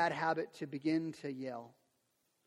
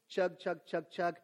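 1 train chugging; slower than usual. Shown as a demonstration. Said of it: "parenting style that's kinda like a freight train".

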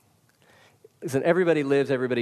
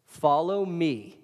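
slow gentle invitation; much slower than usual. Retold or imitated. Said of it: "Jesus very gently is saying".

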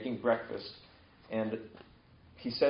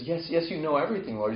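raised-pitch, mildly exasperated insistence; agitated; 5 semitones higher than usual. Retold or imitated. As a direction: imitate someone getting a bit worked up. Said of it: "He's kinda getting agitated".

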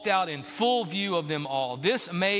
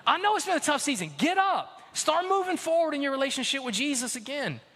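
voicing Jesus; 6 semitones higher than usual. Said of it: "Jesus says".

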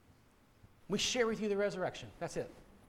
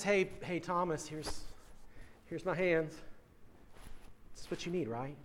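gentle, not mocking; 4 semitones lower, 9 dB quieter than usual. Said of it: "he didn't do it in a mocking way".

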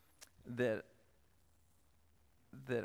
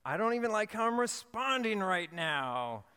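higher, mock-frustrated child; imitating upset daughter; 8 semitones higher, 4 dB louder than usual. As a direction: voice a girl annoyed at herself. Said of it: "And then she goes".

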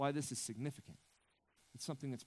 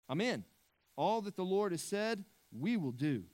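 raised, louder congregation-style amen; eager group response; 5 semitones higher, 5 dB louder than usual. Retold or imitated. Israelites answering Moses, eager loud amen.

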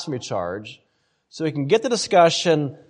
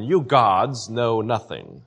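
sarcastic God; 3 semitones lower, slower than usual. Retold or imitated. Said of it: "God is speaking sarcastically".

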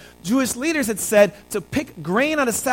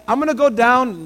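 retold loud call; 3 semitones higher, 4 dB louder than usual. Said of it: "so I say real loudly".

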